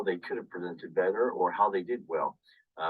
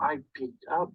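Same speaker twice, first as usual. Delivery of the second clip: "picked up" lifted high; demonstrative, high rising delivery; animated example; 8 semitones higher than usual. Shown as a demonstration. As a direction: raise the pitch sharply on "up". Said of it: "move your body as you talk".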